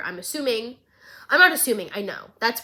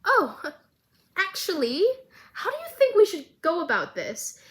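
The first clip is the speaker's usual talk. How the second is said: nervous; 7 semitones higher than usual. Retold or imitated. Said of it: "Caitlyn behind her goes".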